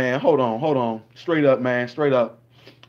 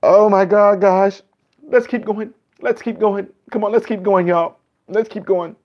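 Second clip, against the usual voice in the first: higher, hammed-up breathless urging; mock flustered reactor; 5 semitones higher than usual. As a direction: pretend to barely hold it together. Parody reactor composing himself.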